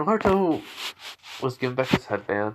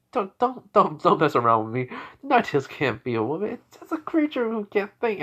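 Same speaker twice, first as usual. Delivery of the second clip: flustered protest, jumping high in places; stammering disbelief; 8 semitones higher than usual. Acted. Hokage protesting to Naruto about the Nine-Tails, stammering disbelief. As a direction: stammer in refusal to believe it.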